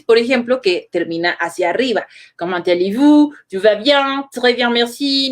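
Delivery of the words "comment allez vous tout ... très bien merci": French phrases with rising ends; French sentence melody. Shown as a demonstration. Teacher showing how French rises at the end, in French. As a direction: say the French like a native, lifting each ending. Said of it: "Ocurre distinto con el francés".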